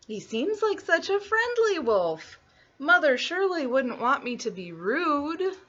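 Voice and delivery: put-on high little girl voice; little girl thinking. Little Red excusing the friendly wolf, high girlish voice. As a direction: reason it out as a naive child. Red's thoughts voiced in story.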